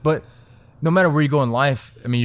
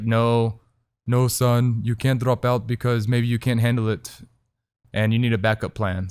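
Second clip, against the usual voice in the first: light imitation of a Greek dad's accent; doing his father's Greek accent. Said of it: "that was my best Greek accent".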